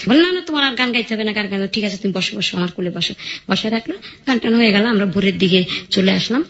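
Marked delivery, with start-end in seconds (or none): 0.2-3.1 put-on softer, gentle hush to a frightened little girl; soft reassurance to a scared child; soothing a crying child. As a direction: coax her kindly to sit back down.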